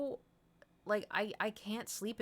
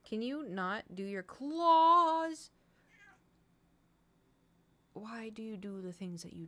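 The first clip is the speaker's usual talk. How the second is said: annoyed scold; 4 semitones higher, 4 dB louder, slower than usual. Real, not acted. Scolding the cat on stream.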